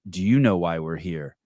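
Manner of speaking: mock bitchy comeback, leaning on YOU; mildly catty retort; kinda bitchy. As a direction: throw it back a little snottily, stressing "you". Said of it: "responds just kinda bitchy and goes".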